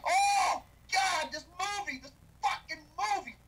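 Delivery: a high, loud shout of outrage; exasperated shout. Real, not acted. Fed-up reviewer shouting about the movie, loud. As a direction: yell out in disbelief.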